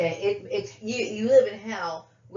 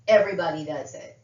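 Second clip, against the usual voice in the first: louder, bitter repeat of everybody does it; angry echo; 6 dB louder than usual. Real, not acted. Repeating what people tell her, with anger. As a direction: throw their words back at them hard. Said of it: "that's exactly why it pisses me off".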